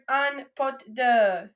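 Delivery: slow model word. Shown as a demonstration. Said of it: "I'll say that word, then you guys say that word".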